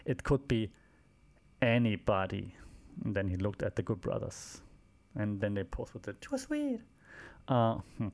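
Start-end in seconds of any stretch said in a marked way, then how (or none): 0.1-2.6 measured mock announcement with a long pause; slow, repeated-style quote. Wrestler announcing next week's handpicked opponents, slow and deliberate. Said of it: "like, very slowly and repeated". 6.1-6.8 mock catchphrase, pitched way up; high-pitched catchphrase. Wrestlers posing together after the match, high-pitched catchphrase.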